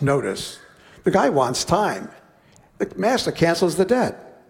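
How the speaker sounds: ordinary delivery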